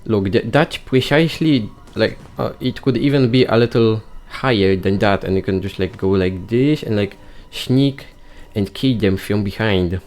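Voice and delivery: excited nerdy rambling voice; nerd voice. Pretend. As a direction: rattle it off like an eager nerd. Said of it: "speak using that silly nerd voice".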